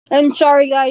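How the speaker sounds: talking around candy in her mouth; words round a sucked candy; mouth full. Real, not acted. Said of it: "I have candy in my mouth".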